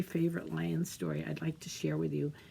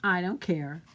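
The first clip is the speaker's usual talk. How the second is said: put-on bored boy; 4 dB louder than usual. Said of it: "Pierre said".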